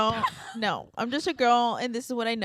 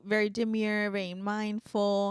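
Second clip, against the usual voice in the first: lightly imitated demure TikTok voice; imitating soft demure girl; 3 dB quieter than usual. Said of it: "she would talk like this".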